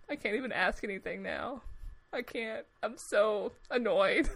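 soft, deflated muttering under the breath; muttered frustration. Retold or imitated. Sitting in the front row annoyed, quiet grumbling. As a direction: grumble it to yourself, defeated.

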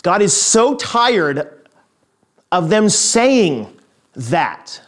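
slow, weighty echo of a fed-up father; deliberate, drawn-out weariness; exasperated echo. Acted. Echoing the father's exasperated line.

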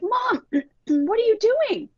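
put-on high, whining kids' protest; imitating boys whining at mom; whining kids. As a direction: whine it like upset boys in the van. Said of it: "And they were like".

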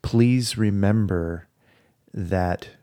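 tender plea. Retold or imitated. Soul's tender plea retold.

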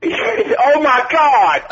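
laughing. Pretend. Laughing mock panic.

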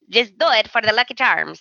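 quick, badly faked Irish accent; half-hearted mock Irish accent. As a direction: toss it off in a terrible Irish brogue. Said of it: "That was a very bad accent".

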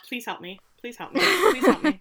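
hammed-up plea rising to a squeal; mock pleading. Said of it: "I think it was more of".

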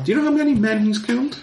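high, fast mocking question; taunting question. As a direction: toss it up high and quick, taunting. Villain taunting doctor.

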